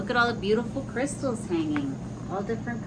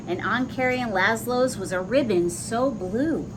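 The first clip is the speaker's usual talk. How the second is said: lilting, sing-song rhyming read-aloud; storybook voice with a gentle bounce; reading to children. A narrator's reading. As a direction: read the rhyme to little listeners. Reads rhyming picture book aloud.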